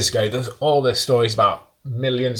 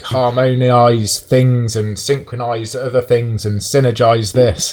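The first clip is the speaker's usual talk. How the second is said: slow, mocking corporate buzzword voice; mock PR-speak; slower than usual. Podcaster mocking the LibreOffice release notes, in a slow mock PR voice. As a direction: drag out the buzzwords like a smug PR writer. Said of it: "It was like".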